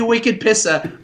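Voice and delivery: imitating a Bostonian's dropped r; Boston accent. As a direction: say it like a Boston local. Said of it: "just like that".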